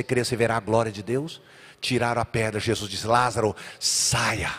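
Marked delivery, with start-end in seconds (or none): 3.1-4.5 slow, low and calm call; solemn command. Acted. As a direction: call him out gently but firmly. Jesus calls Lazarus out. (ordem solene, lenta e baixa)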